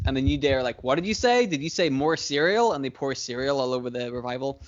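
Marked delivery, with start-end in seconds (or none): 0.8-2.7 mock mishearing. New Day mocking the Revival.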